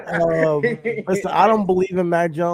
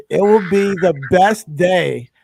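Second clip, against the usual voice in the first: emphatic declaration; 7 dB louder, much slower than usual. Real, not acted. Hyped slow declaration about his team.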